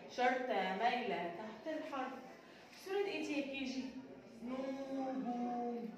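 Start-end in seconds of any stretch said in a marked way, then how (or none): 4.4-5.9 نجوم drawn out very slowly and a little softer; slow phonics word; stretched out slowly. Shown as a demonstration. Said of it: "teacher sounds out picture name".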